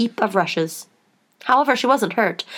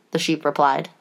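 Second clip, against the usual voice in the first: ordinary delivery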